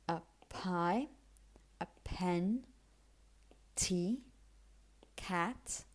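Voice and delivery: word list from "pie" to "twin", each initial stop puffed; aspirated p, t, k. Shown as a demonstration. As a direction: practice words read singly, "tea" and "cat" aspirated. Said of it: "some more examples that you can practice".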